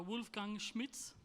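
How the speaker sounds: put-on name said in a German accent. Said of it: "trying to do my German accent".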